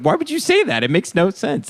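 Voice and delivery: high, exasperated questioning; worked-up, incredulous mock rant; retold real anger. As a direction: demand an answer, re-enacting outrage. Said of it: "I started getting really mad".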